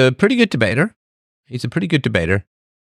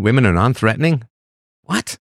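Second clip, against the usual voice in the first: incredulous. Real, not acted. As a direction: question it, ending in a squeaked small "What?". Disbelief at a viewer's claim.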